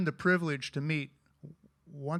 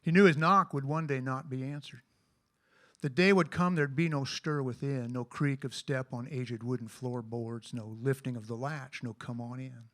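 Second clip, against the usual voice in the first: measured poem reading; poem recitation. Acted. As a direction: recite the verse with feeling. Recites a poem about friendship.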